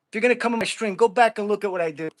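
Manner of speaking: loud, pointed rebuke to a troll; stern telling-off. Real, not acted. Streamer scolds a troll who mocked his training, loud and firm.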